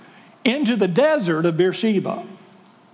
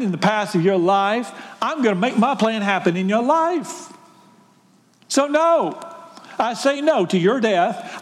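building angel promise. Acted. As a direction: build it firmly, line by line, into a promise. Angel's promise grows emphatic.

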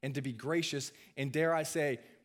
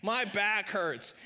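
high-pitched mock complaint, last words drawn out; half-attempted comedian voice, pitched up to whine about pain; Roseanne Barr; 6 semitones higher, much slower than usual. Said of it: "I can't do a Roseanne Barr impression".

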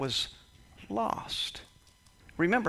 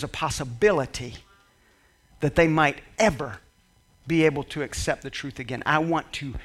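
lightly voiced sly enemy, gloating; a hint of a scheming devil; enemy's voice; 5 dB louder than usual.

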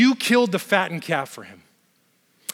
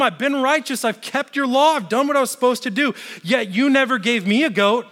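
higher-pitched, self-pitying complaint; resentful older brother; 5 semitones higher than usual. Retold or imitated. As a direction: whine out the grievance. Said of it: "You can almost hear the pity".

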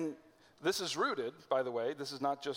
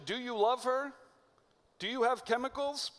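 "Do you love her?" pitched much higher, lightly airy, as a question about feelings; mock romantic question; 8 semitones higher than usual. Shown as a demonstration. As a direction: lift the voice high and light on "love". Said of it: "the question that they know".

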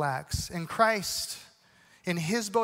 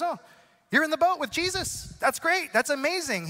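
delighted praise; 5 semitones higher than usual. Retold or imitated. God delighted seeing you saved.

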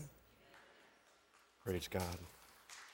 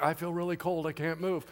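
cold sluggish viper; 3 semitones lower, 10 dB quieter than usual. Acted. Voices a freezing viper.

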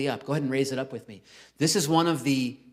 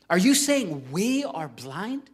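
indignant Pharisee; 4 semitones higher, slower than usual. Acted. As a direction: voice the offended leaders looking down on him. Pharisees challenge Jesus.

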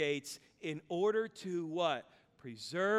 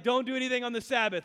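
quick, higher, louder command; mock exasperation, rapid and raised; exasperated order; 4 semitones higher, 5 dB louder, faster than usual. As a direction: lay down the rule in a hurry. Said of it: "He's literally like".

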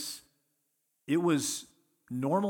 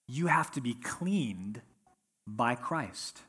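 whispered; much slower than usual. Real, not acted. Whispered point in sermon.

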